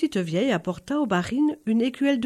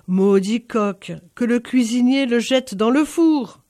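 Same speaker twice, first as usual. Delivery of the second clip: angry curse; 5 dB louder than usual. Acted. Barine cursing the rooster.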